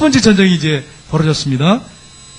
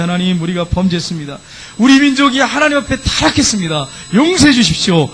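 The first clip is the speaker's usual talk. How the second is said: acted repentant plea. Israelites begging God to forgive their nation, acted repentant plea. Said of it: "하나님 앞에 회개하는 거예요".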